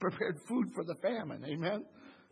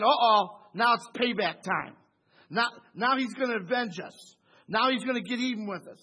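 brothers' dread, louder and hammed-up; mock worried brothers; 4 semitones higher, 8 dB louder than usual. Brothers fearing Joseph's revenge, hammed-up louder worry. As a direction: play the guilty brothers sweating the payback. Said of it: "They're saying".

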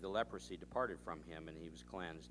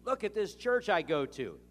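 much higher and louder, thrilled announcement; excited gushing; 10 semitones higher, 10 dB louder than usual. Retold or imitated. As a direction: tell everyone as if it's big news. Church member raving about her preacher.

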